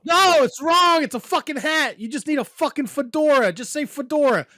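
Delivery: loud, high indignant protest; exasperated ranting about a hat; mock outrage. Real, not acted. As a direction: insist hotly, half joking. Heated argument over hat name.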